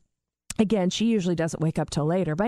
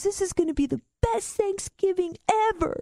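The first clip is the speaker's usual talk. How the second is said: much higher, mock laughing-to-tears voice; imitating tearful hilarity; 12 semitones higher than usual. Bubba delighted by the stoned-dad news, mock crying-with-laughter squeal. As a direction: squeal it like someone helplessly amused, imitated. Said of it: "He starts laughing so hard he's crying".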